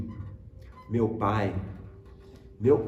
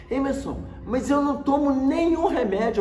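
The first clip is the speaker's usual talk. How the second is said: high, louder imitation of dad objecting; protesting father; 11 semitones higher, 5 dB louder than usual. Father insisting he takes no medicine, protesting. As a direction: plead your case as dad, pitched way up. Pai protesta contra a internação.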